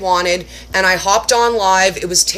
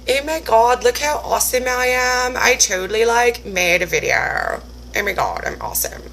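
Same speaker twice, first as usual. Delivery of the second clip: mock self-impressed; 2 semitones higher than usual. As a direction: gush about yourself, then drop to a murmur. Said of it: "very proud of myself".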